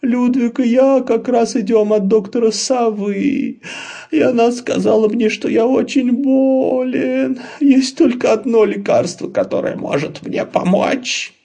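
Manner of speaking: high, slow whiny sickly voice; milk the sympathy, pretending to be ill; fake invalid. Laban fooling the bunnies, high whiny sickly voice.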